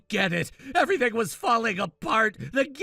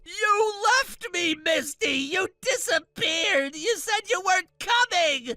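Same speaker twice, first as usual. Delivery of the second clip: raised accusing voice; angry accusing shout; 6 semitones higher than usual. Acted. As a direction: throw the blame back at her. Groom blaming Misty.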